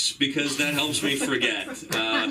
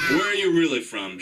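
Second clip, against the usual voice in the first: pressing shout; 3 semitones higher than usual. Acted. Pressing the girl again.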